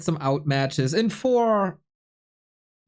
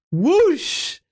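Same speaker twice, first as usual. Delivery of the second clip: high, loud whoosh of something flying past; whoosh sound; 5 dB louder than usual. Retold or imitated. Streamer mocks himself for missing the joke, loud high whoosh. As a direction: swoosh it like a joke sailing overhead.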